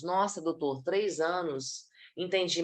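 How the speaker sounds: mildly deflated client reacting to bad news; hesitant client. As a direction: let the enthusiasm drop, voice sinking. Acted client balking at treatment length.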